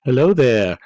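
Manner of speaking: hammed-up hiss greeting; snake accent. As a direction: greet it like a hissing serpent. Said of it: "in my best snake accent".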